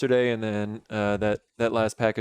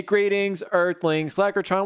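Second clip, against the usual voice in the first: put-on old speech synthesizer; 7 semitones higher than usual. Greets viewer as alien/robot.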